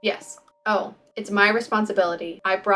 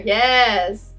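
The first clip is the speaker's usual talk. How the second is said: excited yes; 7 dB louder than usual. Acted. Excited reply to card reveal.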